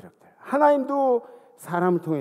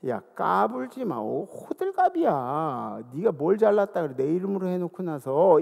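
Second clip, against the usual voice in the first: stern Jesus scolding. Retold or imitated. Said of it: "예수님이 위험 있게".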